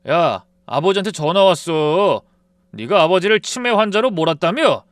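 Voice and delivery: husband snapping at his wife about his father; angry outburst. A narrator's reading. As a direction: bark it at your wife. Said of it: "남편이 버럭 화를 냈어요".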